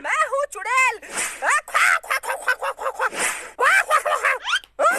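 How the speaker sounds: high croaking witch cackle. Acted. Real witch appears.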